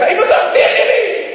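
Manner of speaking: high, desperate retold plea; pleading cry. Son begging mother over the phone, pleading cry. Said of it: "ושמעת אותך צועק".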